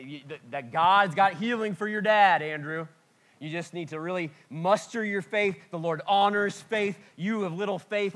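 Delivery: mock-preach faith at a grieving son, building up; preachy faith camp. Friends pushing faith on a grieving son, mock preachy.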